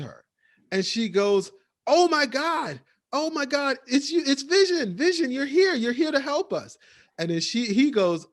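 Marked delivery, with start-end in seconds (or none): 1.9-6.8 high, loud, breathless relief, imitating Agnes; frantic relief. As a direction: gush with panicked relief. Agnes frantic seeing Vision.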